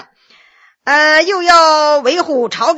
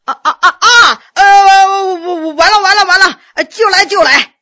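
higher, louder flustered reply; loud answer; 5 semitones higher, 6 dB louder than usual. A narrator's reading. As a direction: call back loudly from inside, laughing. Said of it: "大声答应着".

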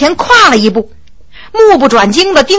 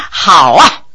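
hearty laughter. A narrator's reading. Fu Heng approves his subordinate's plan, laughing heartily. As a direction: burst out laughing, then settle into approval. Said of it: "不由哈哈大笑".

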